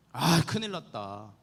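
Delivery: slow, drawn-out mock sigh of dismay; retold lament. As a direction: lament it slowly, lightly acted. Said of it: "탄식하는 거예요".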